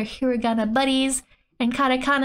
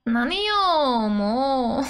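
slightly raised, whiny character groan; mock exasperation; slower than usual. Manga girl reacts to being hit, mock exasperation. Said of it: "mo used for exasperation".

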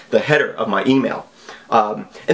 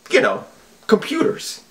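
squeaky mock awe; 11 semitones higher than usual. Mocking the villain's logic.

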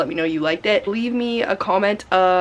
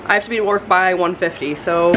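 out of breath. Real, not acted. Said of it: "Oh, I'm out of breath though".

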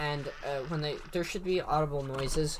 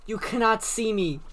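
John Cena taunt; 5 semitones higher than usual. Pretend. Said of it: "I am like John Cena".

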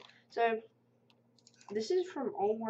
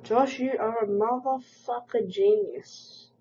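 slow loud read of the comment; loud mocking read; 7 dB louder, slower than usual. Reading a hate comment aloud.

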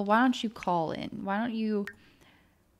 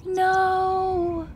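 frantic high pleas as the grandmother dies; distraught pleading; 10 semitones higher than usual. Real, not acted. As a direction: beg the game to stop her dying. Sim is dying, pleading.

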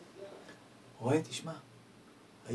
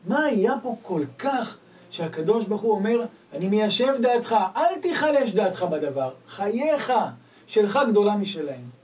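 raised, louder preacher's cry; preaching; 6 semitones higher, 9 dB louder than usual. Acted. Preacher proclaiming God's words to his listeners. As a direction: proclaim it to the congregation with force.

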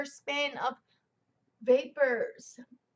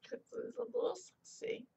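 a sultry put-on whisper, higher; playful sexy voice; 8 semitones higher, 7 dB quieter than usual. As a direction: tease with a mock seductive whisper. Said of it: "I don't know where that accent came from".

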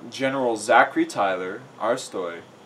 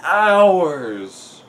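slow, high complaining groan; hammed-up groaning protest; Riley; 6 semitones higher, 4 dB louder, slower than usual. A narrator's reading. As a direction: whine it, stretching the words out. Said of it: "Riley groaned again".

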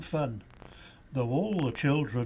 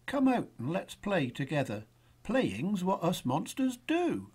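friendly; 5 semitones higher than usual. Acted. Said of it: "smiled the stranger".

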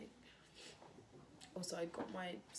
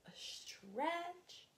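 higher, breathy mock whisper; silly whisper; 11 semitones higher than usual. Showing her sculpture to viewers, in a silly whisper. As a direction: whisper it like a joke. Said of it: "Sorry, I don't know what I'm doing".

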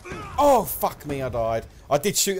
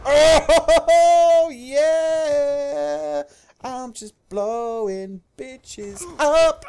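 high, loud, laughing and drawn out; laughing with glee; 13 semitones higher, 8 dB louder, much slower than usual. Real, not acted. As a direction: cackle through the triumph, slowly. Gleeful kill streak.

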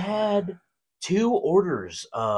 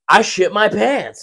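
mock sheepish confession; 8 semitones higher, slower than usual. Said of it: "look at them like".

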